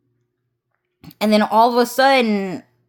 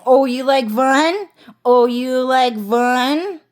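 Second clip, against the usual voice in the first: mock teasing; 3 semitones higher, 4 dB louder, slower than usual. White House teasing the speaker, mock singsong. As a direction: tease him like the White House, slowly. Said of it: "the White House is saying".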